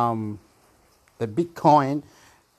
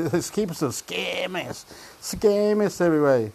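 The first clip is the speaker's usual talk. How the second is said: laughing; 5 semitones higher than usual. Real, not acted. Mocking the scammers, laughing.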